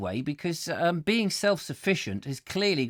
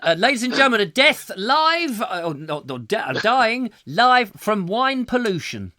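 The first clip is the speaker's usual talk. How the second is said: mock announcer; 4 semitones higher, 4 dB louder than usual.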